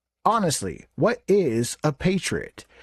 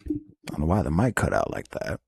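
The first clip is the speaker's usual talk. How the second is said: pitched-down processed voice; voice effect; 10 semitones lower, 3 dB quieter, faster than usual. Acted. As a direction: talk through a voice changer. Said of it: "the producer messing around with some tools".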